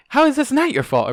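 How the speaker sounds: loud, high angry growl. A narrator's reading. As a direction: snap at her partner in fury. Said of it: "Ariel growled".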